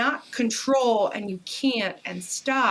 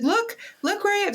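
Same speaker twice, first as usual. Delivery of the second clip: high, eager call from a mountaintop; showing off the view, pitched way up; excited call; 12 semitones higher than usual. Retold or imitated. Husband calling from a mountain, high and eager. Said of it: "He's like".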